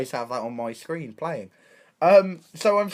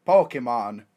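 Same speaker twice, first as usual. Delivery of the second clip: lower, put-on Romanian accent; 4 semitones lower, 5 dB louder than usual. Drunk tourist explaining Pokemon to a Romanian policeman, put-on Romanian accent. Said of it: "I put on a Romanian accent".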